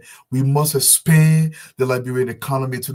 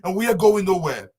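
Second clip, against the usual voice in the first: impassioned cry; 8 semitones higher, 5 dB louder than usual. Real, not acted. Impassioned appeal to the president.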